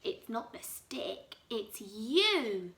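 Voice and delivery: hushed, gloating husband; grinning Mister Twit. Acted. Husband taunting his wife, hushed and gloating. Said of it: "cried Mister Twit, grinning horribly".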